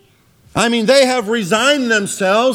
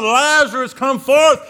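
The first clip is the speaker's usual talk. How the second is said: higher-pitched, restrained commanding call; crying out; 5 semitones higher than usual. Retold or imitated. Preacher voicing Jesus calling Lazarus out, mildly crying out. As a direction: imitate a summons to the dead, mildly raised. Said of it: "and then crying out".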